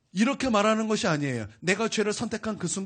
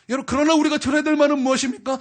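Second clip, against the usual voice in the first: higher and louder, stress on 우리가; 우리가 punched, louder call to the congregation; emphatic repeat; 7 semitones higher, 9 dB louder than usual. Acted. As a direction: press the question home on 우리가. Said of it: "repeated louder".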